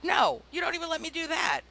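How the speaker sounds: high, exasperated pleading with the game makers; mock indignant plea. Pleading rant at the game's makers.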